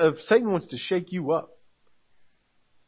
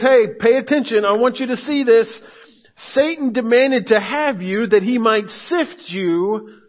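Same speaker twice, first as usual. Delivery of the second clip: louder, urgent paraphrase; emphatic warning; 3 semitones higher, 4 dB louder than usual. Retold or imitated. Pastor paraphrasing Jesus to Peter, louder and insistent. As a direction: press the warning home. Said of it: "He's emphasizing".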